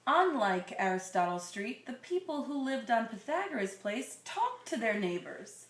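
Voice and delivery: put-on slow, gentle read-aloud to a child; storybook reading voice; story narration. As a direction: read it like a bedtime picture book. Reading picture book to child.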